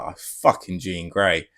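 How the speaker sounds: slow, drawn-out reaction; retold outburst. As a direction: drag it out in understated disbelief. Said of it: "out loud was like".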